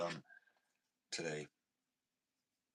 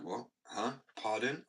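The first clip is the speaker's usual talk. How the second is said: imitating confused listeners; 4 semitones higher, 3 dB louder, slower than usual. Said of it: "They're just like".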